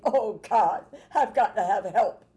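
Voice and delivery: acted desperate plea to God; mock-tearful, unpolished cry for help; desperate prayer. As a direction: plead for help, as if praying through tears. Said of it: "This is not a pretty prayer".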